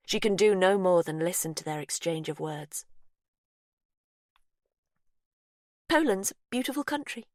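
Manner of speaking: high, unsettling sweet captor; Faith's voice. Acted. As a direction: coo to the victim, falsely kind. Faith answering.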